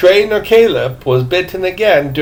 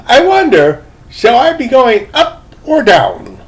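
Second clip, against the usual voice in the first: put-on old man voice; 6 semitones higher, 4 dB louder than usual. A narrator's reading.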